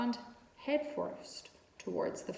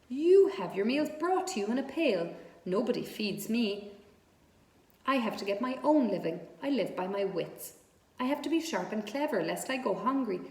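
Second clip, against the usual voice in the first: firm retort; 2 semitones higher, 4 dB louder than usual. Acted. Charlotte argues her living.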